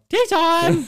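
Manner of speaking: loud, high mock battle cry; sudden shout. Coach randomly calling out halfway through the session, sudden shout. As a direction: burst out with it at the top.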